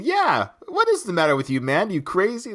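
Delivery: lightly acted sparring partner chiming in; a touch of imitated indignation; Benson. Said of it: "And then Benson kicks in".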